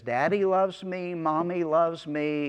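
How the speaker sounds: a hint of a little child's singsong; imitated toddler, only lightly put on; lightly voiced toddler. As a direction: lightly imitate a small boy listing who loves him. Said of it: "two and a half year old Rye".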